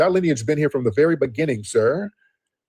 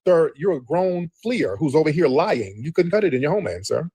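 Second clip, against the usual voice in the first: scornful scolding. Real, not acted. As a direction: stretch the words out to berate him. Heated argument, berating the caller.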